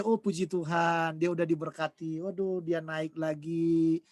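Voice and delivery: gently glad for another's blessing; gracious praise. Shown as a demonstration. Preacher showing the congregation how to respond to a neighbor's new car, slow and gracious. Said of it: "seharusnya kita ngomongnya seperti itu".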